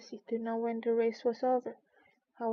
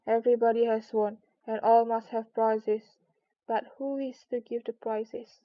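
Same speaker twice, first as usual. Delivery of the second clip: proclamation; 4 dB louder than usual. Acted. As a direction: declare it grandly to everyone. Dodo proclaims to all.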